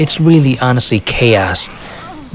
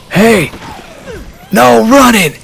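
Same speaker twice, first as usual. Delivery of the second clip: police yell; 11 semitones higher, slower than usual. Retold or imitated. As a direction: bark out the order to stop running. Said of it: "one of the police officers yells".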